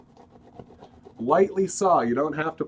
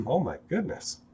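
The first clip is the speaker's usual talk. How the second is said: frog voice; 4 semitones higher than usual. Real, not acted. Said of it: "forgive my frog voice".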